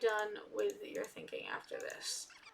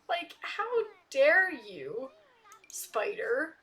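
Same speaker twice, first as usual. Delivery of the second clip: 1 mock outrage; 4 semitones higher, 5 dB louder, much slower than usual. Angry at neighbor insulting husband.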